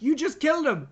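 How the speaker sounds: mock shocked Jude Law. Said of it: "Jude Law is like".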